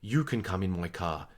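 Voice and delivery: low, soft creepy stranger's voice; creepy low man. Retold or imitated. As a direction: lure the kid in, quiet and low. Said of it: "And he's like".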